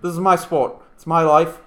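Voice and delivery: put-on slipping into an Australian accent; unintended Australian accent; accidental Australian. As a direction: read it with a drifting Australian twang. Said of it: "I went Australian there".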